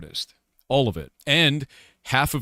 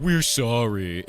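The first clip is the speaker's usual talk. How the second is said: mock apology; much slower than usual. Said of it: "that moment in South Park".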